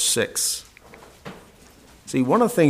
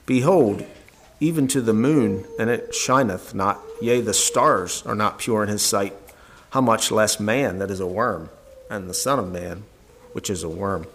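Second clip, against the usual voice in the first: scripture reading. Acted. Preacher reads Job aloud.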